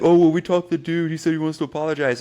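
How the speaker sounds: put-on high, fast, dismissive girlfriend voice; mocking ex-fiance. Teen imitating his ex saying the dude wants to apologize, mocking high voice. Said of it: "then she's like".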